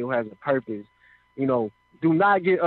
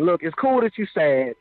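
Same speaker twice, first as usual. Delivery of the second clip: voice of God. Retold or imitated. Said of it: "I hear this voice".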